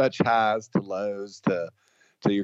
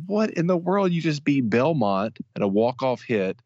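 excited yell; 5 semitones higher than usual. Retold or imitated. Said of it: "I'm like".

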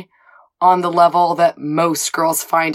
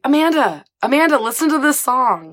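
higher, singsong calls of her name; teasing friends; 7 semitones higher than usual. Retold or imitated. Friends in the car teasing Amanda about the song, singsong. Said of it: "And everybody's like".

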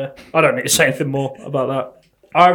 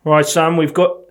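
mock policeman slipping into Australian; accidental Australian accent; slower than usual. Policeman addressing the suspect, accidental Australian accent. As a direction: attempt a cop, land in Australian. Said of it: "that's Australian".

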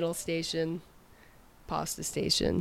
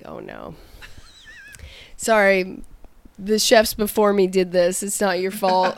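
apologetic chef; 5 dB louder than usual. Retold or imitated. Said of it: "You're like".

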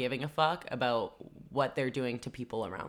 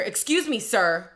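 mock polite; 8 semitones higher, 8 dB louder than usual. Mocking polite rebuke.

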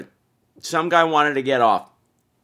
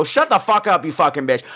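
mock angry outburst; 3 semitones higher than usual. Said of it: "quelled my urge".

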